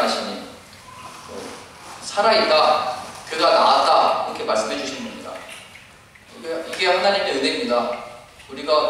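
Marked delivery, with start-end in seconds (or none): 2.0-4.3 slow reassurance. Acted. Jesus's reassurance voiced.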